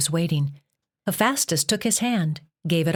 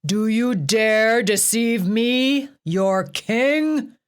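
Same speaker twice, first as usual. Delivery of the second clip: 高く大きくゆっくり怒鳴る; 王の威厳で叱りつける; furious roar; 5 semitones higher, 4 dB louder, much slower than usual. A narrator's reading. Zeus raging at Hip.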